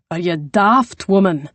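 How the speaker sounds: a lightly voiced gruff man; growl. The Scot growling at Poppy, lightly gruff. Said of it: "he growled".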